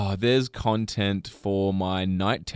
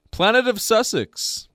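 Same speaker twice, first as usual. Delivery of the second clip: laughing; 12 semitones higher, 7 dB louder than usual. Real, not acted. Laughing punchline.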